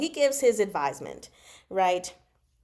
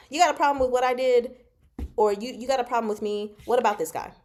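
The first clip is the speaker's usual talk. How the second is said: quick, louder, confronting a friend straight; blunt talk to a friend; 3 semitones higher, 3 dB louder, faster than usual. Shown as a demonstration. Friend calling a friend out, fast and a bit louder. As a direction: call him out like a buddy would, fast and pushy. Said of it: "I would talk to my friend like this".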